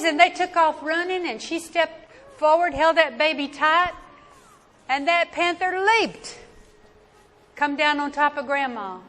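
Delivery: loud, high, urgent narration; excited. A narrator's reading. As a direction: race through the attack. Action climax, panther attacks.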